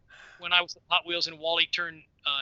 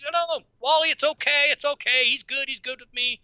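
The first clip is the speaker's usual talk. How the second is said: high, louder mock reassurance; urgent placating; 9 semitones higher, 4 dB louder than usual. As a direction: imitate hurriedly vouching for someone. Retold friend vouching for the boy.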